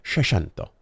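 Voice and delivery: seicento said "she-shento", with a sh sound in place of the s and the ch; the young lady repeats seicento in her dialect; dialect pronunciation. Retold or imitated. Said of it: "That's the dialect".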